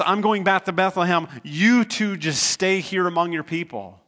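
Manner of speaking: mildly emotional Naomi sending her daughters-in-law home; emotional plea. Retold or imitated. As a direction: urge them to stay, with feeling. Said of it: "emotional meeting where she says".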